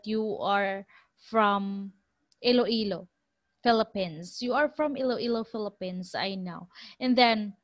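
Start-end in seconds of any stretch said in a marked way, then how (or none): 0.0-4.4 slow, spaced-out words with pauses between; deliberate Canadian working it out word by word; slow Canadian quote. Retold or imitated. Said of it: "the Canadian said". 4.4-6.7 fast, confident run of words trailing off softer; quick knowing quote. Retold or imitated. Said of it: "the Canadian said".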